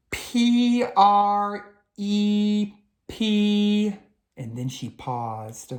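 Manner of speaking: letter by letter, very slow and careful; hesitant spelling bee letters, rising at the end. Acted. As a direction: spell it out one letter at a time, unsure.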